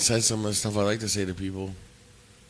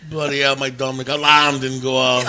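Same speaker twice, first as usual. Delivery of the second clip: laughing put-on English accent; hammy English accent through laughter; 2 semitones higher, 7 dB louder than usual. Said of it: "getting the English accent down".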